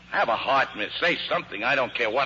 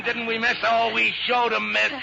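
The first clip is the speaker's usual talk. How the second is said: much higher, excited bragging; elated gloating; 10 semitones higher, 3 dB louder than usual. Acted. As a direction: crow over the beaten Germans. Gloating after escape.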